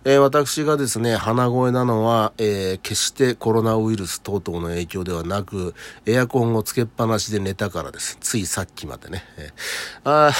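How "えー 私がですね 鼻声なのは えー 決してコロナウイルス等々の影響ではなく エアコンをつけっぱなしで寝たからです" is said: nasal voice. Real, not acted.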